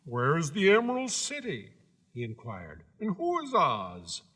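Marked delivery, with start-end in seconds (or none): 0.0-1.7 scarecrow voice. Acted. 3.0-4.2 scarecrow voice. Acted.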